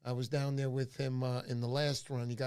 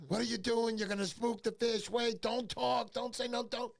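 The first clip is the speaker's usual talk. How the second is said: higher, urgent mock scolding, slowing on don't talk; retold scolding; 6 semitones higher than usual. Charlie scolding the narrator for talking, mock angry rebuke. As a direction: hush them angrily as if they'll spook the fish.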